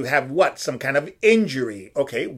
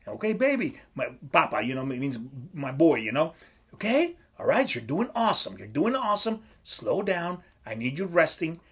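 calm coaching tone; 6 dB quieter than usual. Shown as a demonstration. Coach easing his fighter into rest weeks, soft and reassuring. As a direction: talk him down kindly, like a trusted coach. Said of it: "See that tone?".

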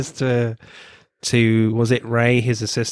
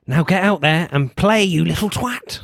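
mock gruff order; 7 semitones higher than usual. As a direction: bark it out like a pushy manager. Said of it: "and Ray says".

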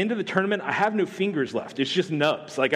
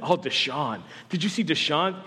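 mock Clemson fan. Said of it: "every Clemson fan".

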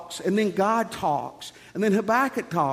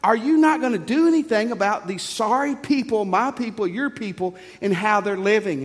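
raised, exasperated plea to God; crying out to God; 4 semitones higher than usual. Acted. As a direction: call out to God in protest. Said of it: "he cries out to God".

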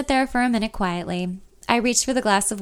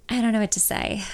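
depressed. Acted. Narrator telling Ben about Ryan, depressed. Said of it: "I say, depressed".

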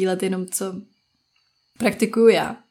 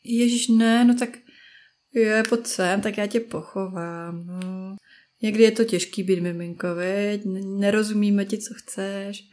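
put-on tender baby-soothing. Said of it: "to je to roztomilý miminko kámošky". (konejšivě, jako na miminko)

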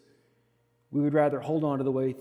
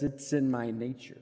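softer, lower, matter-of-fact; cold flat reply; 4 semitones lower, 6 dB quieter than usual. Retold or imitated. Pastor voicing the scorpion's calm answer to the frog, softer. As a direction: let it fall, unbothered. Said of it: "he just says".

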